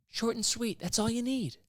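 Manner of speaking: lifted high, mocking tone. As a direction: squeak it out like a mock preacher. Mock officiant voice.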